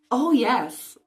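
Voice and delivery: high, loud eager yes. Acted. Hermione flattering Lockhart, eager high voice. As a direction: gush it out eagerly. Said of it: "said Hermione eagerly".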